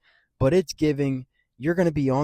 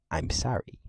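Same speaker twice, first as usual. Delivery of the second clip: whispered sorry with a rise; whispering; 2 semitones lower, 6 dB quieter than usual. Real, not acted. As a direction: breathe it out as a mock apology. Whispered mock apology.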